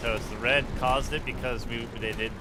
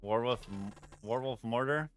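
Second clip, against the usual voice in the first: mouth full. Real, not acted. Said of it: "if I sound like my mouth is full".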